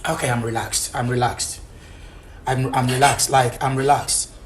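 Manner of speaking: very low, soft, restrained voice; forced calm. Real, not acted. Husband told to relax, forced calm. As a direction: hold the anger down, almost murmuring.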